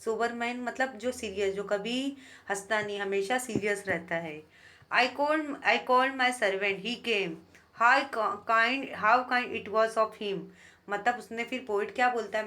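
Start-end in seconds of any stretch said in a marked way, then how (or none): 4.9-10.4 very slow, deliberate reading of verse; teacher reading poetry aloud; poem recitation. Shown as a demonstration. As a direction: savour each word of the poem line.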